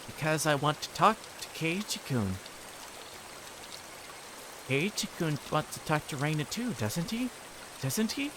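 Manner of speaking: sweetly insistent, with menace underneath; sweet creepy girl. Acted. Reina coaxing Keiichi to talk, creepy sweetness.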